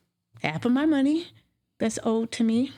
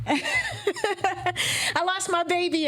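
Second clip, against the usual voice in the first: laughing, high, very slow; laughing through it; 9 semitones higher, much slower than usual. Real, not acted. After the host names her loss, laughing through tears. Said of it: "Damn you".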